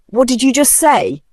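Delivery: high, loud stunned question; shocked. Acted. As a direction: blurt it out in shock. Sons jump in shock.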